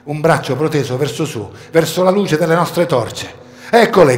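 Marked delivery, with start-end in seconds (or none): 3.7-4.2 loud, higher cry of discovery; joyful shout. A narrator's reading. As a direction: call out as you spot them.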